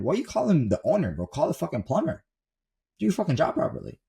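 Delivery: lightly acted scolding, pitch swinging up; mock an irritated boss telling someone off; exasperated boss. Gym owner to employee who should call a plumber, exasperated.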